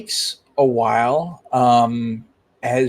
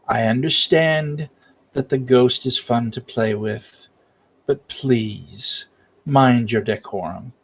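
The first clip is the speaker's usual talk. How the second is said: gentle scolding. Acted. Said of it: "he says".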